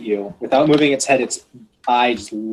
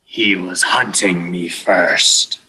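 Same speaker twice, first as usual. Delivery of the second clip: tag-less dragon speech; 5 semitones lower, slower than usual. Acted. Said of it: "it looks at you and it says".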